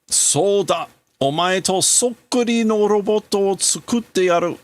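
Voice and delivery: a grieving scientist swearing to rebuild his son; grieving father. Acted.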